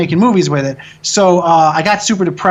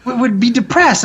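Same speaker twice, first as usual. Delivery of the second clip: raised, exasperated self-scolding; incredulous rant about his own privilege; worked-up rant; 4 semitones higher than usual. Real, not acted. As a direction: pitch up and push, baffled at yourself.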